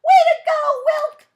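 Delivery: very high, very loud cheering shout. Acted. Cousins and friends cheering for Wilk, very high and loud. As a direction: cheer him on at the top of your voice. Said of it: "let out a loud cheer".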